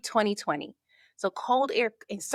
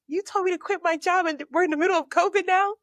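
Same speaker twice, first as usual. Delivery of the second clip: high, louder, exasperated whine; exasperated disbelief; 10 semitones higher, 4 dB louder than usual. Retold or imitated. Asking God why covid hit right after quitting, high exasperated. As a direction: throw the complaint up at God.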